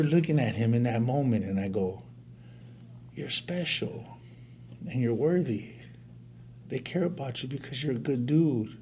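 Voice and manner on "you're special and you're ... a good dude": higher-pitched, gently affirming; tender reassurance. Retold or imitated. Older brother consoling his sobbing little brother, tenderly reassuring.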